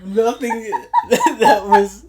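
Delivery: wheezing through the words, high and loud; can barely speak for laughing; helpless laughter. Real, not acted. Host cracking up over the Michael joke, laughing hard. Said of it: "You good, bro?".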